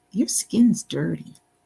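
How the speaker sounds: put-on small child's voice with Canadian accent. Retelling what a little boy said to the speaker, in his Canadian accent. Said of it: "he said in his Canadian accent".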